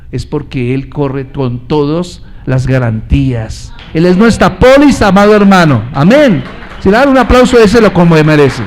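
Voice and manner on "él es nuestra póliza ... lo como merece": louder, proclaiming to the congregation; full-force preaching. Acted. Preacher rousing the church to applaud, preaching loudly. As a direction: preach it out loud, calling for applause.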